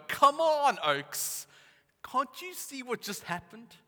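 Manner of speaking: loud, high exasperated appeal; exasperated pleading. Acted. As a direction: plead with them in mock exasperation. Exasperated aside to Bible characters.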